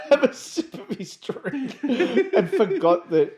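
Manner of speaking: high, slow through laughter; laughing. Real, not acted. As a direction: laugh the words out. Laughing mid-sentence.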